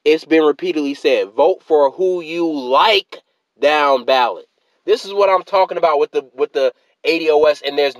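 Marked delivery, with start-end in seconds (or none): 0.0-4.5 "vote for who you like down ballot" read very slowly, word by word; slow deliberate reread. Shown as a demonstration. Vlogger rereads tweet to fam, slow and pointed. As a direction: drag out "like" to mock the tweet's logic. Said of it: "reread that".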